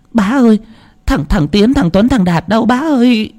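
high, whimpering plea; a mother near tears asking for her son; lightly voiced crying woman; tearful mother. A narrator's reading.

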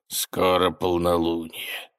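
slow, low sinister rasp; menace, slow and hoarse; ominous hoarse voice. Acted. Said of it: "зловеще произнесла тень хриплым мужским голосом". (зловеще, хриплым голосом)

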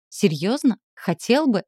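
насмешливо, с подъёмом на хотел; горько усмехнуться над его словами; усмешка. Acted. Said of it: "усмехнулась". (горькая усмешка)

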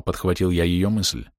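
usual speaking voice

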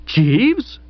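high, insistent call, rising; vociferous call. A narrator's reading. Narrator calls the butler, vociferating. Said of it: "I vociferated".

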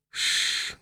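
long, soft hushing hiss; quiet, voiceless «Шш»; soothing shush. A narrator's reading. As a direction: shush them to calm them down. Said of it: "попыталась она успокоить его".

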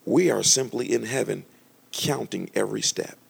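slow, lofty divine voice; slow solemn divine voice; voice of the Holy Spirit. Retold or imitated. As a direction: speak it slowly like heaven's verdict. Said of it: "He said".

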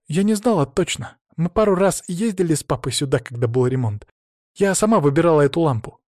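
put-on a teen girl telling her dad what happened; hint of a hurt young daughter; teenage daughter. Tonya explains.

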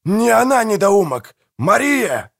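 very high, angry roar; impassioned high-pitched shouting. A narrator's reading. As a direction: bellow the correction at him. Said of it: "взревел Манфред".

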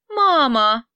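put-on a child's sudden loud call; child shouting. Little daughter calling her leaving mother, loud cry. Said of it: "внезапно закричала девочка".

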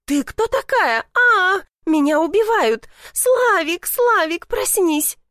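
high, loud panicked squeal; shrieking in panic. Acted. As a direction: squeal for help as if being killed. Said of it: "Она заверещала и отскочила".

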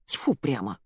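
put-on old woman fed up with the shouting girl; angry old woman. A narrator's reading. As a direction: grumble like a cross old woman. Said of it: "обозлилась старуха".

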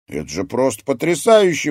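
loud, high enthusiasm; excited and impressed; thrilled exclamation. A narrator's reading. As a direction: exclaim it in wonder. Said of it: "воскликнул Алекс".

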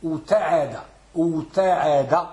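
أتعد with the first consonant unmerged, before a single t; original unassimilated form. Shown as a demonstration. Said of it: "التعد أصلها كيف؟".

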